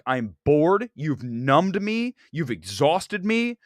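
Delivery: slow, drained and flat-out bored; numbed moviegoer after the film; mock bored drag. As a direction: drag each line out like you're exhausted. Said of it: "you're just like".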